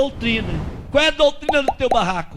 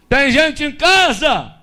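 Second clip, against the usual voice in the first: drawn-out, higher-pitched call; slow hail from outside; 4 semitones higher, slower than usual. Retold or imitated. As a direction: call to whoever is inside the house. Calling at the gate of shack.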